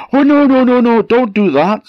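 high frantic troll panic; panicked squeal. Acted. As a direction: shriek it in alarm.

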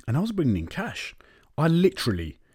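hushed secret whisper. Real, not acted. Whispering to listeners about dropping his cash clients. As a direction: drop to a whisper as if sharing a secret.

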